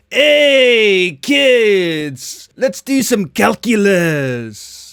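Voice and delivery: loud, high, drawn-out cholo call; hammed-up cholo accent greeting a class. Would-be cholo teacher hailing the kids, hammed-up cholo accent. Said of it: "I'd probably go full cholo".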